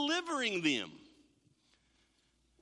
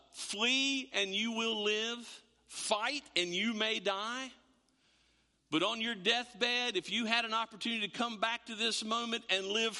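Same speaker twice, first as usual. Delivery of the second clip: hint of Braveheart speech. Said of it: "That's a very deep, husky voice there".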